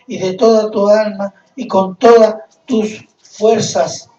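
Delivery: solemn read-aloud, swelling on the commandment; scripture reading. Acted. Preacher reads the law to the congregation, scripture reading. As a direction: declaim the verses with measured phrasing.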